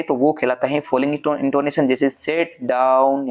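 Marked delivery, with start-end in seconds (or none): 2.1-3.3 falling tune on sit down; falling intonation. Shown as a demonstration. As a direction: stress sit, let down fall away. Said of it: "सिट को आपने जोर से बोला".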